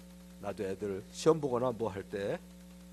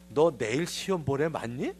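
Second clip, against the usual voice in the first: put-on slow, louder sneering question to a child; sarcastic jab; 5 dB louder, slower than usual. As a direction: needle the sleepy kid slowly. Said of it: "꼭 그렇게 빈정대야 돼요?". (빈정대며 천천히 묻는 말투)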